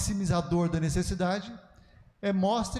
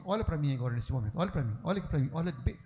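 quick, repeated demand for attention; rapid, urgent mock-pulpit appeal; insistent pastor; 4 semitones lower, faster than usual. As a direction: imitate a preacher pressing for eye contact, fast. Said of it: "alguns pastores falam assim".

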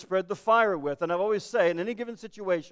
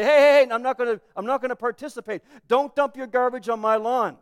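mock indignant, louder on the heys; firm protest; 4 semitones higher, 6 dB louder than usual. Believer refusing to join in the gossip, firm protest. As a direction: cut them off with a loud objection.

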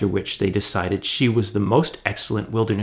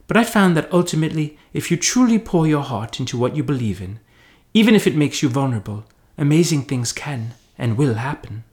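put-on higher, earnest girl ranger; an eager beaver sharing a heartfelt lesson; lightly acted sincere heroine; lightly voiced earnest girl; 4 semitones higher than usual.

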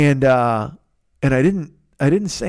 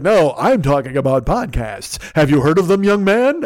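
Fearful. Retold or imitated. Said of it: "I'm trying to do his, his, uh, on the mountain voice".

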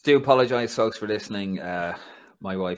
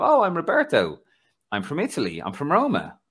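imitating Roberto; 6 semitones higher, 5 dB louder than usual. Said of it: "he goes".

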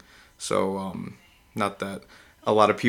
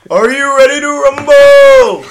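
booming, drawn-out ring announcer call, pitched way up; 16 dB louder, slower than usual. Pretend. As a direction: belt it out slowly like a fight-night host. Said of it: "Got my announcer voice ready".

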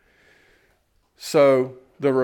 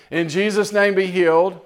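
higher and louder "In Jesus' name, be healed"; bold declaration; 6 semitones higher, 5 dB louder than usual. Shown as a demonstration. Preacher urging the congregation to pray and step aside, loud declaration. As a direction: proclaim "be healed" with force. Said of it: "Get out of the way".

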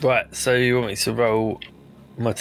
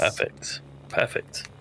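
whispered; 7 dB quieter than usual. Real, not acted. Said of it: "whispered repeat".

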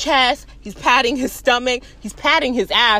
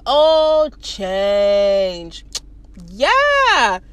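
dawning understanding; 5 semitones lower, much slower than usual. Retold or imitated. Man finally gets what guard means, dawning. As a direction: act out the penny dropping.

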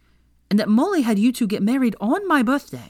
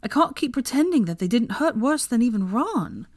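higher, mildly tearful pleading; feigned upset, pitched up; pretend crying; 6 semitones higher than usual. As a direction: put on a wounded voice to win sympathy. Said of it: "did you just pretend to cry".

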